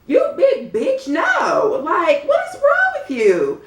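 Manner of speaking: high, loud furious yell; outraged outburst. Real, not acted. Vlogger yelling at Red for bullying Jada, furious and high. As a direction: let the outrage explode at the screen.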